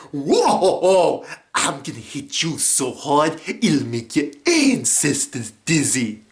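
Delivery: blustering tough-guy threat; lightly voiced cartoon brawler; Yao. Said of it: "doing the voices and the lines".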